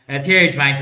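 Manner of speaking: loud, laughing brag; laughing boast. Real, not acted.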